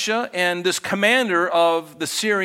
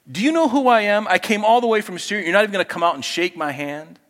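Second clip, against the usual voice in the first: higher, louder offended outburst; indignant Naaman; 5 semitones higher, 3 dB louder, faster than usual. Retold or imitated. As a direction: play the insulted commander. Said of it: "And Naaman was furious".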